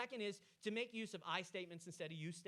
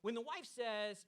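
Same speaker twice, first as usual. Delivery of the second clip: ordinary talk, nothing marked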